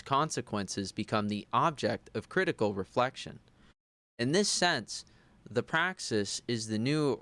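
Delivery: measured book reading, deliberate; formal reading. Acted. Reading a theory book aloud for his recording. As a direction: read it out like a serious text.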